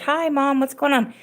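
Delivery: casual hello. Retold or imitated. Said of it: "just like".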